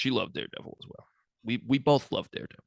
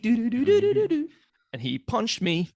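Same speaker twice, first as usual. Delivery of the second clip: dramatic voice; 12 semitones higher, 4 dB louder, much slower than usual. Pretend. Mock dramatic line.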